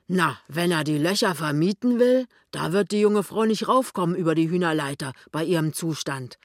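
lightly voiced sceptical tradesman; a hint of bluster; blustering shopkeeper husband. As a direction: scoff at the very idea.

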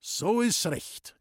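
slow, glad exclamation; cheerfully approving; joyful. Acted. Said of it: "rief Baumiller freudig aus".

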